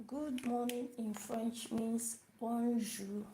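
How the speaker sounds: slow, deliberate explanation; slow teaching line. Shown as a demonstration. Teacher slowly explaining greeting to learners. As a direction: spell it out slowly for beginners.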